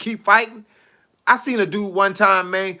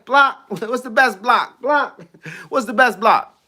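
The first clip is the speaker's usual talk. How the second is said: mock eager fan; 4 semitones higher than usual. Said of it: "they say".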